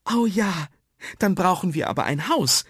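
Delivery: put-on high, loud, delighted child; enthusiastic. Mia takes up the game, enthusiastic. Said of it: "rief Mia begeistert".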